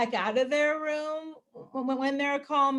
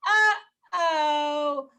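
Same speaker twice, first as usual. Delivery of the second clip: drawn-out singsong, higher and louder; calm "uh-oh"; 4 semitones higher, 6 dB louder than usual. Shown as a demonstration. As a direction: sing it out to a toddler without anger. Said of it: "very calmly say".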